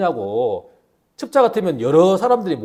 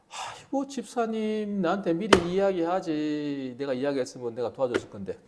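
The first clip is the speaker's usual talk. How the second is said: hollow sympathy; 6 dB quieter than usual. Acted. Deacon offers hollow sympathy.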